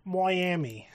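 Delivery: laughing mock Irish accent on "Miami", vowel stretched into "Moi-ami"; terrible Irish accent. Teasing an actress's bad Irish accent, mock Irish "Miami". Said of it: "That terrible Irish accent".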